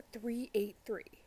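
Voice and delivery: hushed whisper, breathy and secret. Real, not acted. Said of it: "I feel like I have to whisper".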